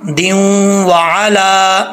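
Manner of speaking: दियों वाला, slow, with the ending as दियों; careful दियों; correct ending. Shown as a demonstration. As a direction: say दियों, not दिव or दिन. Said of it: "इसको दिव वाला या दिन वाला नहीं पढ़ना".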